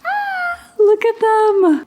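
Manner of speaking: very high, slow coo; high, slow, delighted coo; cooing squeal. Real, not acted. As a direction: coo over them like tiny babies. Sees the crocheted gifts.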